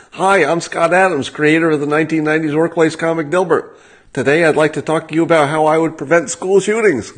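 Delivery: lightly hammed-up Dale, sneering at the quote; mock pompous self-introduction, voiced as Dale. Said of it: "I'll read it again".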